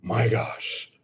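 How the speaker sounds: big loud, high "oh", then settling; thrilled amazement. Real, not acted. Crafter sees the first staple work, loudly thrilled. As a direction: explode on the first word.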